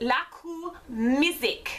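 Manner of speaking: Haitian-accented speech. Speaker reads out the band name on a Goodwill album: fake Haitian accent. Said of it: "I just did that accent".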